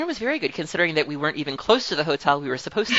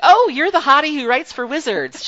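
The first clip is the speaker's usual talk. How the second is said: high, breathless starstruck gush; gushing fangirl squeal; 11 semitones higher, 5 dB louder than usual. Retold or imitated. To a writer she admires, a high starstruck squeal. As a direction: blurt it out like a starstruck fan. Word-vomit quote to a crush.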